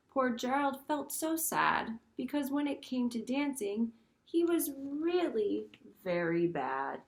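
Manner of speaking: lively storybook read-aloud; reading to children. Acted. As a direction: read it like story time for little kids. Teacher reads picture book aloud.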